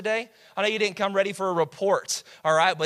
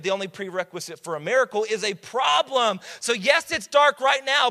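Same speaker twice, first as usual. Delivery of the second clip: raised, driving preacher's voice; fired-up preaching; 5 semitones higher, 4 dB louder than usual. Real, not acted. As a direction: press it home to the congregation.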